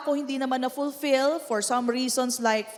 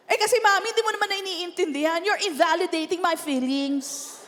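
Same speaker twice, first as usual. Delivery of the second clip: put-on whiny teen; 4 semitones higher, faster than usual. Teen voiced talking back.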